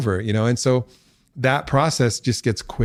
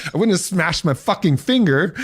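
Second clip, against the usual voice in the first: a hint of pained anger, higher and excited; mock frustrated outburst; 8 semitones higher than usual. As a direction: vent the retold frustration in a half-laugh. Angry retelling of pain.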